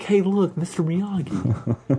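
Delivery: put-on high-pitched drunken call, slowing on the name; tipsy sideline holler; wasted heckler. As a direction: call out like a sloshed fan, laughing at the end. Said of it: "him being on the sidelines wasted".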